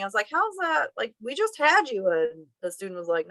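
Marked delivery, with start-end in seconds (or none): 0.3-2.1 incredulous. Retold or imitated. Disbelief student graduating.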